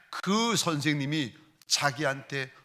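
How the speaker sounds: normal talking voice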